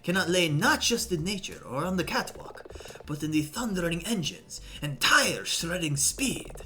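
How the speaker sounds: grand, pompous mock French witness voice; lightly put-on French, rising into rapture over speed; obnoxious accent. Vain photographer testifying in court, hammed-up French accent. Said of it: "I'm just doing obnoxious".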